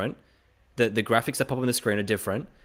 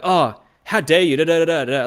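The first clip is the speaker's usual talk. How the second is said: hammed-up how-dare-you outrage; mock indignant outrage; 7 semitones higher, 8 dB louder than usual. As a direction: ham up offended fury. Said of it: "I'm gonna become really emotional as well".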